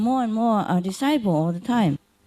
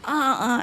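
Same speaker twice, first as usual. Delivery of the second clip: mild moan; 5 semitones higher than usual. Retold or imitated. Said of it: "I moan a little".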